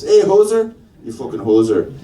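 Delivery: put-on movie-style Canadian accent. Comedian recalling an eighties movie, Canadian accent. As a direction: throw the insult in a comic Canadian accent. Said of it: "First time I ever tried a Canadian accent".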